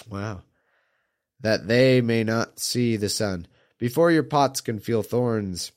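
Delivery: measured psalm recitation; scripture reading. Acted. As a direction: read it like scripture, steady. Reads a psalm aloud.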